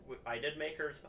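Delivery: tripping over the words; stammering start; stuttering. Real, not acted. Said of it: "I'm stuttering really bad".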